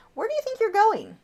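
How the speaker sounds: high-pitched pet voice.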